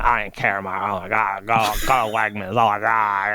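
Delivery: put-on Valley Girl voice. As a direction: sigh it out like a bored Valley Girl. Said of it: "Lumpy Space Princess meets a Valley Girl".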